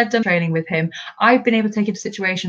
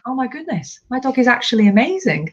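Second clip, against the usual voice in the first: higher, gushing mock amazement; amazed owner; 5 semitones higher than usual. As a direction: imitate an owner who can't believe their dog. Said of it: "they're like".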